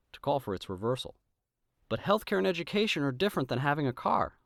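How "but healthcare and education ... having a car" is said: mocking leftist voice. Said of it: "leftists will say".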